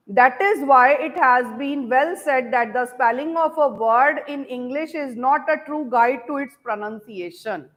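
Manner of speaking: very slow, word by word English dictation. Shown as a demonstration. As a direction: dictate each word slowly so students can write. Teacher dictating English sentence.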